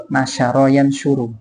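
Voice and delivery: Nasyara yansyuru dengan sy jelas dan pelan; nasyara with sh sound. Shown as a demonstration. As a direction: ucapkan Nasyara dengan syin. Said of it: "Beda huruf ya". (Nasyara yansyuru diucapkan pelan dengan sy)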